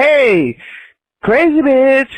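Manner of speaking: high, friendly sing-out to get attention; nice calling out. Retold or imitated. Retelling how he walked up to her, nice high call. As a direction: call over lightly. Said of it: "I'm being nice at first".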